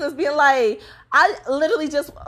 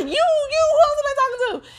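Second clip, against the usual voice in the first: very high mock child voice; mouthy little kid; 13 semitones higher than usual. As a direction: imitate a kid talking back. Voices mouthy child talking back.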